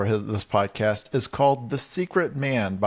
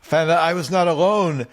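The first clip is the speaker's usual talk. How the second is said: mock dramatic narrator; 4 semitones higher than usual. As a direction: overplay the cliffhanger. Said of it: "mocking the book ending".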